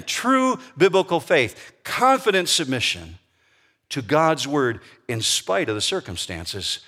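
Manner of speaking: preacher leaning on "True biblical faith"; emphatic restatement. Shown as a demonstration. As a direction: let the definition sink in. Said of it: "Really drink that in".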